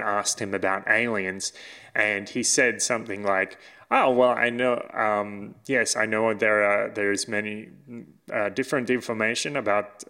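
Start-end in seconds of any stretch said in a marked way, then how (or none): 3.9-10.0 put-on a light, playful German accent. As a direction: voice a politician with a thick German accent. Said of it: "I'm doing a German accent".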